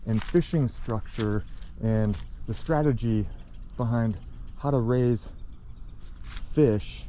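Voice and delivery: out of breath from carrying rocks; breathless, words between breaths. Real, not acted. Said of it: "sorry, I'm out of breath".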